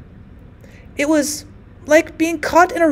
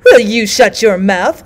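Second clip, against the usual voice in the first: angry snap; 6 dB louder, slower than usual. Acted. Old women quarrel.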